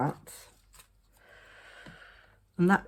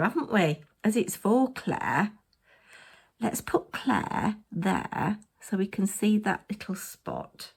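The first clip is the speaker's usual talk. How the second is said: normal talking voice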